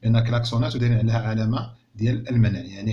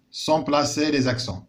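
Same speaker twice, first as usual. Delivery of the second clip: sont placés les accents read very slowly, each word separate; slow classroom dictation; 3 semitones higher, much slower than usual. Shown as a demonstration. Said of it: "قال لك sur quelle lettre".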